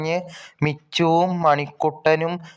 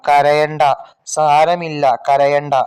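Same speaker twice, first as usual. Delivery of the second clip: louder, urging a crying friend to stop; loud comforting; 4 dB louder than usual. Acted. Manikuttan loudly telling crying Manu not to cry, louder comforting. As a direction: call out soothing words to a crying boy.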